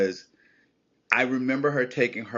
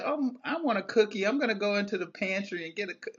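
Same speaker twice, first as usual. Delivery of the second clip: put-on higher, quick and eager like a greedy kid; mock kid voice; 9 semitones higher, 3 dB quieter, faster than usual. Kids heading for the pantry for cookies, higher eager mock child voice. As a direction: play a kid after a cookie, a bit fast. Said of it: "you know how kids just be like".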